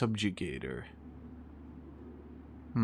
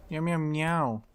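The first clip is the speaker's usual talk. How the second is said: light mock cat meows; cat meowing impression; 4 semitones higher, slower than usual. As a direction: meow like a nervous cat. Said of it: "that is literally exactly what you sound like".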